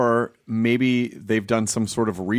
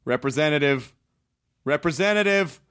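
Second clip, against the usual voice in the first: yelling at phone menu. Retold or imitated. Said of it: "I'm screaming at the automated voice".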